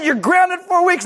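high, imitated mother passing sentence; stern mom verdict. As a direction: deliver the sentence firmly. Mom's verdict.

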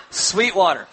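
chuckling as you repeat the answer; laughing answer. Shown as a demonstration. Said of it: "I know you're in church".

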